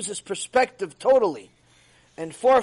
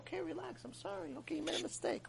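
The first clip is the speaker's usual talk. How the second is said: much softer and higher, soothing; meek clerk pleading; 9 semitones higher, 18 dB quieter than usual. Retold or imitated. Clerk pleading with an angry customer, soft and high. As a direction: beg the customer to calm down.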